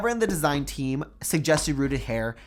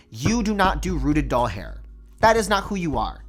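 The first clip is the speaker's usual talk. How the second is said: louder and slower, building into real annoyance; getting mad; 5 dB louder, slower than usual. Real, not acted. Doll collector scolding American Girl over rooted hair, rising anger. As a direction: let the frustration boil over on the question. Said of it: "I'm gonna get myself mad again".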